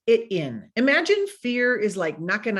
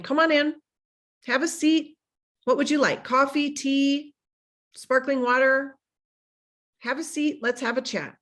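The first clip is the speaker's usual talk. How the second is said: welcoming host; 5 semitones higher than usual. Pretend. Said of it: "imagine saying".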